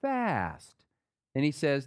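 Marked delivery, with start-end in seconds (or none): 0.0-0.8 slow drawn-out reading. Shown as a demonstration. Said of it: "When you fast".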